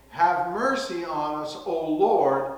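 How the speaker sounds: loud, high desperate plea. Retold or imitated. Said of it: "they cried the more".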